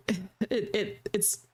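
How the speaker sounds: stuttering over words. Real, not acted. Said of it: "I'm stuttering".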